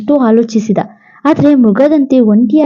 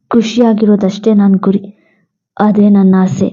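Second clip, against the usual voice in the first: lightly voiced devoted husband; 3 semitones lower than usual. Husband answers his dying wife Smriti, lower and tender. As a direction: sound like a husband refusing to let her go. Narrator voices grieving hero.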